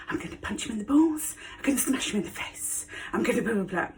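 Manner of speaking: high-pitched mock fighting talk, tailing off; mock fighting bravado. Imagining how you'd face an attacker, mock bravado. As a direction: play at talking tough, starting high.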